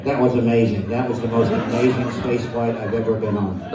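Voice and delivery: a lightly voiced old star, marvelling; imitating Shatner. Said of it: "Shatner, enjoy yourself".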